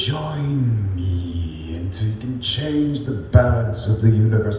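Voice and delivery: low, very slow Sith villain voice; slow menacing dark-side villain. Shown as a demonstration. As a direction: draw the offer out like a Sith lord tempting you. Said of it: "reference these characters".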